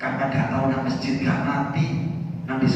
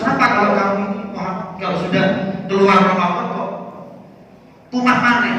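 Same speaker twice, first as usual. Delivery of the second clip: questioning kiai; 5 semitones higher than usual. Acted. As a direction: press him for an answer. The kiai asks again. (kiai bertanya dengan nada tinggi dan heran)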